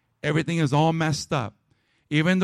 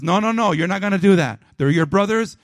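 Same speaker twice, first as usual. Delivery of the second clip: firm, louder voice of God saying no; God forbidding; 4 dB louder than usual. Acted. God telling Judah not to attack, firm and louder. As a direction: put your foot down as God would.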